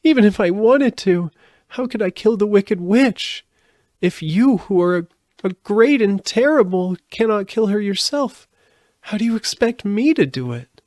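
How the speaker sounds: put-on high, loud tearful girl's cry; a distraught little girl crying out; sobbing. A narrator's reading. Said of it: "she sobbed".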